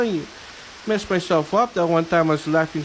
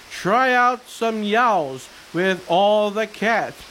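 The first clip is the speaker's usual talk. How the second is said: slow, sing-song poem reading; reading to children; much slower than usual. Acted. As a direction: read it slowly to a child.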